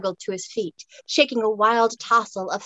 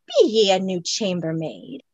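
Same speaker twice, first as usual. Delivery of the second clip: Scots Highlander; 2 semitones lower than usual. Acted. Highlander questions her.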